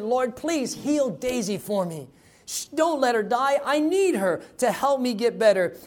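put-on high, pleading child's prayer; earnest prayer. Little boy praying for his hurt dog, earnestly pleading. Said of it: "in his heart of faith, he prayed".

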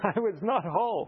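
laughing repeat. Real, not acted. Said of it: "repeated with a laugh".

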